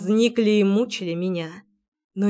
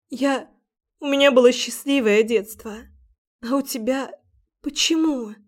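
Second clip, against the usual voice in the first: sobbing; 4 semitones higher than usual. Acted. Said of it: "рыдала навзрыд".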